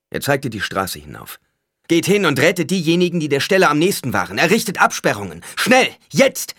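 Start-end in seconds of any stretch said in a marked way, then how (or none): 1.9-6.5 higher, louder urgent commands; commanding orders. A narrator's reading. Paul orders his men to save the wounded, loud command. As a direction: bark orders at the rescue crew.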